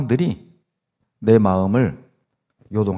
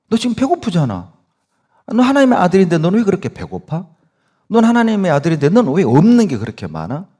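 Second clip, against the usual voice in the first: higher, mocking taunt as the devil; 4 semitones higher than usual. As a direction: jeer at him like the tempter. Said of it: "계속 송사한다니까요". (조롱하며 비웃는 마귀 목소리)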